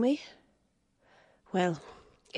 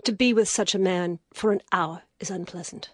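rising anger; 11 semitones higher than usual. Acted. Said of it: "the wild anger died away".

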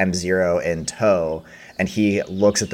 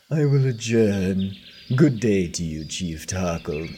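smug businessman; 2 semitones higher than usual. Acted. The businessman warning the chief about the council, smug. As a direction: make it politely threatening. GM voices suited man leaving.

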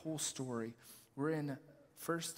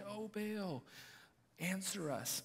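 slow, high, hollow plea to an idol; a hint of the prophets begging Baal; calling out; 4 semitones higher, 5 dB quieter, slower than usual. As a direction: drag out the cry to a silent god.

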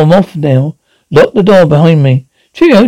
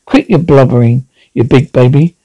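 gruff scolding; 4 semitones lower than usual. Acted. Husband scolds crying wife.

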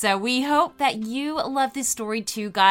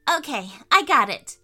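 put-on excited little girl; 4 semitones higher, 6 dB louder than usual. Sophie makes her wish.

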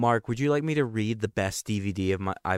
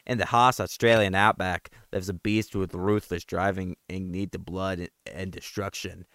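horror trailer voice. Acted. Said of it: "went through, like, five different accents".

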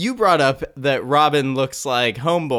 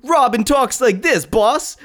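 higher, slow mock mobster voice; mobster Robin; 8 semitones higher, slower than usual. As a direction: ham it up like a movie wiseguy. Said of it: "this weird, like, mobster type".

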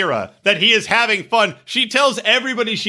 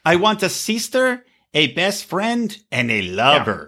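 put-on Mexican accent; hammy Mexican-accented imitation. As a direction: quote her with a light mock Mexican accent. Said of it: "I did a Mexican accent there".

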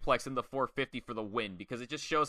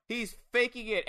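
much higher mock heckle from the crowd; crowd heckler yell; 9 semitones higher than usual. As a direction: call it out like a fan in the stands. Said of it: "you hear a guy yell".

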